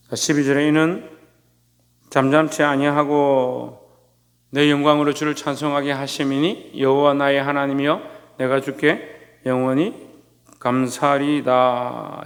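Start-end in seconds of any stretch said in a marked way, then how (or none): 2.1-12.2 slow, even-toned Bible recitation; solemn, measured psalm reading; scripture reading. Acted. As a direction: read the verse slowly, drawing out the endings. Reads scripture aloud.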